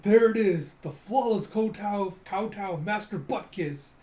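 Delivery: loud, high announcer call; hammed-up play-by-play excitement; excited commentator. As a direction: announce the big move with fanfare. Commentator announces the flawless kowtow.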